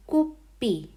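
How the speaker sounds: "Kuppi" with a long held pp and a falling end; careful Finnish word. Shown as a demonstration. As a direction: model "Kuppi" slowly for learners. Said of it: "means cup".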